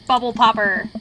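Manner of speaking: lightly voiced dry mentor with a teasing pun; a gentle teacher's joke; Robert voice. Mentor teases the player about a carving, lightly voiced. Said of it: "my Robert voice".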